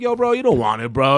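high, cartoonish tough-guy warning; hammed-up bro warning, voice pushed up; hint of a warning to the kid, high mock voice. He warns the kid off.

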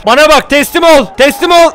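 guard yelling at a rioter; shouted order. Pretend. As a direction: bark it at the armed rioter.

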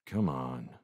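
low, soft coaxing; gentle urging. A narrator's reading. Lewis coaxing the stranger out of a fight, gently. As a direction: urge gently, keeping it down. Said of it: "urged Lewis gently".

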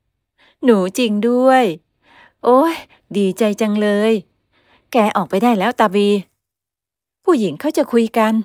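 put-on mother thrilled to meet the girl; delighted mother. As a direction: gush with joy then shoo him out. Mother delighted, shooing son.

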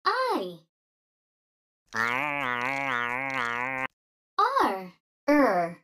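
hiccuping through letters; letters broken by hiccups. Acted. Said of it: "I've got the hiccups".

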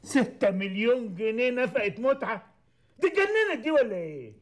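outraged outburst. Acted. Client hearing the alimony demand from his lawyer, outraged outburst. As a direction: spit out the figure, then climb in pitch. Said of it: "وطي صوتك شوية".

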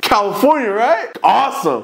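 high-pitched mock-friendly chirp; retold perky, teasing reply; cheeky chirp. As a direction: needle the cop with fake cheer.

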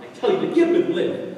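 loud, soaring soap speech; rally her to live; melodramatic shout. Acted.

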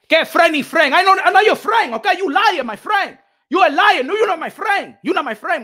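disown him with loud indignation; indignant rejection. Real, not acted. Rejecting someone as friend.

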